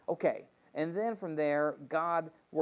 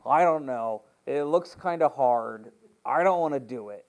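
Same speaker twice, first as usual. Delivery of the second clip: louder, reluctant complaining crowd; loud mock whine of a nervous crowd; whiny reluctant Israelites; 6 dB louder than usual. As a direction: act out the people balking at the hard land. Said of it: "And then they're like".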